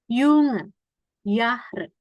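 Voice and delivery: "Junge", "Jahre" starting with Y. Shown as a demonstration. Teacher giving examples, German J said as Y. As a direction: open "Junge" and "Jahre" on a Y glide. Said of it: "Dibacanya kayak huruf Y".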